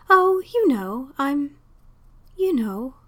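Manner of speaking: a hint of a teary old landlady; choked evasion. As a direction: wave it off through tears. Tearful landlady evading question.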